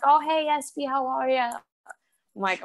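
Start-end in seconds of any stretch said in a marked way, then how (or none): 0.0-1.5 high singsong motherly greeting; imitating mom. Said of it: "She's like".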